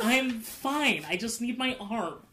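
put-on upset voice. Voicing an upset character who scolds the group: voicing an upset character. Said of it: "She's just like".

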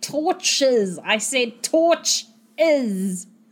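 very slow, drawn out, through gritted, clenched teeth. A character waves scared villagers back into their houses, through gritted teeth. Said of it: "wave them back into their houses with gritted teeth".

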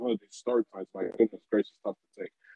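low, grumbling mutter under the breath. Imitating Jay West grumbling about late start times under his breath: imitating Jay West muttering. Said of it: "under his breath".

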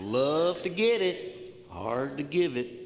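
very slow, drawn-out Alabama Southern US accent. Leading everyone to say a phrase as if in Alabama: Southern US accent. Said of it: "pretend like you're in Alabama and say it that way".

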